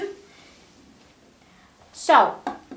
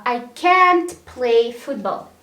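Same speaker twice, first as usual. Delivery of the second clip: "can't" louder and held, the rest lighter; stress on CAN'T; 5 dB louder than usual. Shown as a demonstration. English teacher modelling a negative example sentence, stress on "can't". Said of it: "the stress goes to the modal verb".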